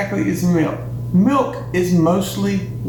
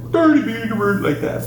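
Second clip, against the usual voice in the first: Swedish Chef gibberish; 4 semitones higher than usual. Pretend. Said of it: "I wanna sound like the Swedish chef".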